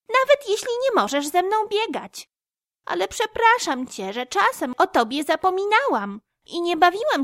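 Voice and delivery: a warm apology from a squirrel; tender squirrel. A narrator's reading. Squirrel figure voiced.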